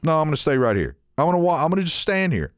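lightly voiced customer digging in; stubborn old lady. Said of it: "she was just like".

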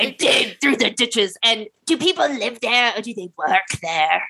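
lightly voiced strange visitor; a hint of a creepy stranger. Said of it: "So I'll be Indrid".

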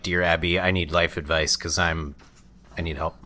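low, soft, halting letter-writer; understated pretend confession; mock plea for advice. Acts out an advice-column letter.

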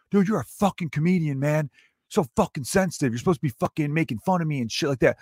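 whining heckler. Retold or imitated. Heckler complaining to the comic at the stage, mock-aggrieved. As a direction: imitate an aggrieved heckler making his speech. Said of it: "some sort of speech".

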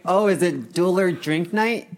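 high, slow mock Canadian. Shown as a demonstration. Guest showing what Canadian sounds like, mock Canadian accent. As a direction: put on a drawn-out Canadian accent. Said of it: "That's Canadian".

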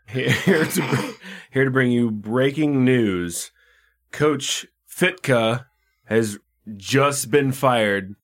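slow, overly grave anchor voice; mock news report. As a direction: deliver it like a TV anchor breaking big news. Mock breaking news bit.

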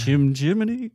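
loud, lilting mock Cockney; Dick Van Dyke. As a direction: belt out a bad musical Cockney. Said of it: "Oh, Dick Van Dyke".

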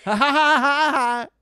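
high, loud, clearly phony ha-has; fake laugh. Showing how the castmate laughed, blatantly fake laugh. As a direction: imitate laughter without even trying. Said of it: "it was a clear fake laugh".

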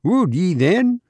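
high Irish lilt with a rising challenge; indignant Irish doctor; Irish accent cry. A narrator's reading. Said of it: "he cried in his own unmistakable accents".

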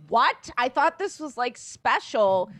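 put-on indignant kid. Guest recalling learning the show wasn't just New York's, mock-indignant kid. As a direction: whine it like a kid let down, half laughing. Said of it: "blew my mind as a kid".

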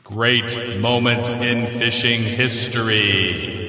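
slow, echoey announcer voice; digital echo. Shown as a demonstration. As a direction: boom it out like an echo chamber. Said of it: "I'll try it again".

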